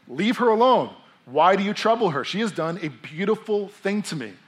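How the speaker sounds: high, loud scriptural command; emphatic read-aloud reproof; forceful rebuke. Acted. Reads Jesus rebuking the disciples.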